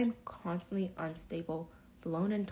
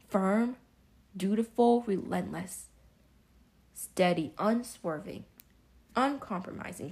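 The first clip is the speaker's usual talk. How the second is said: emphatic list; 5 dB louder than usual. Real, not acted. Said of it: "what's the word I wanted?".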